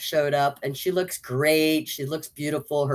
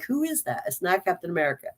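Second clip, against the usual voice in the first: surprised question; 3 semitones higher, 5 dB quieter, faster than usual. Retold or imitated. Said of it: "and you're like".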